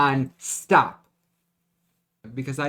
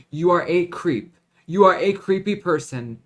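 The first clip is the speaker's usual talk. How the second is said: louder, sharp accusing tone at him; angry call-out; 3 semitones higher, 6 dB louder than usual. Real, not acted. Confronting her stalker directly, angry and raised. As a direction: tell him straight what he is, with heat.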